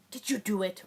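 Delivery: a mock-stern, accusing "Did you do it?" falling hard on "you"; teacher questioning a student, made to sound mean. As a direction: ask "Did you do it?" like an accusation, "you" stressed and the line dropping. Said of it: "I made that sound mean".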